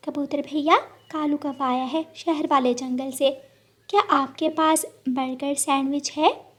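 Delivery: hopeful sparrow. Acted. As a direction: sparrow asking the pigeon for a burger. Sparrow asks pigeon. (विनम्र चिड़िया की आवाज़)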